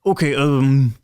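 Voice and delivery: confused, asking for help; Edward confused. Acted. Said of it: "And Edward goes".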